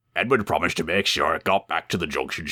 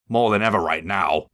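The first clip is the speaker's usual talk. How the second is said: groaning; 3 semitones higher than usual. Acted. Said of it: "groaned James".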